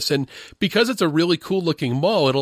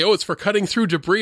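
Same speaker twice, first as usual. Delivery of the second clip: quick, higher, offhand excuse; casual mock explanation; 4 semitones higher, faster than usual. Imitating makers explaining away the death ray, offhand. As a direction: toss it off as an innocent explanation. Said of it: "And they say".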